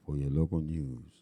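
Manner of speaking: lightly put-on gruff smoker voice; a hint of a cigar-smoker announcer. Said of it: "That's your smoker voice?".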